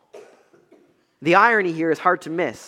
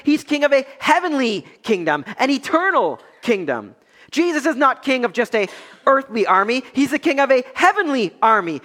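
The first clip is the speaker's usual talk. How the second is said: raised, forceful sermon delivery; emphatic preaching; 6 semitones higher, 3 dB louder than usual. Acted. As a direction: preach it with mounting conviction. Preaches to the congregation.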